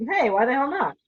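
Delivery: usual speaking voice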